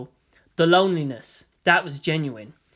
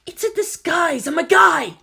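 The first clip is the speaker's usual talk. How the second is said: high, louder indignant outburst; indignant protest; 12 semitones higher, 6 dB louder than usual. Acted. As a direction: insist hotly you're a guy. Indignant protest, fist raised.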